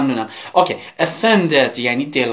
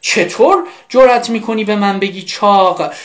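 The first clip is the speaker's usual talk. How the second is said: slow, emphatic mock outrage; acted indignation; 3 semitones higher, slower than usual. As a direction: act offended, drawing out each word in a raised pitch. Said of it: "خانم عصبانی شده و میگه". (عصبانیت نمایشی و شمرده)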